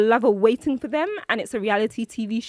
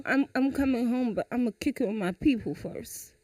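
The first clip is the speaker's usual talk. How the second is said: Julius; 6 dB quieter than usual. Acted. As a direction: stall her casually, trailing softer. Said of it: "So you call, you call me".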